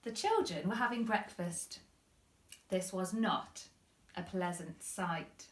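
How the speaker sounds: put-on storybook reading voice for children; story narration. A narrator's reading. Teacher reading to her pupils, storybook voice. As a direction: read it gently to a class.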